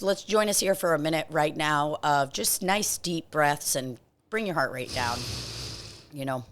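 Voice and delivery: soft, low breathing-coach voice; mock meditation guide murmuring; guided breathing. Leads a breathing session.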